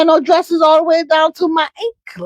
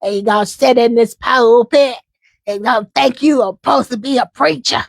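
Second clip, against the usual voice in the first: mock pulpit rebuke; imitating a preacher. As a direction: mimic a preacher scolding from the pulpit. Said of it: "I'm just talking about how he be talking".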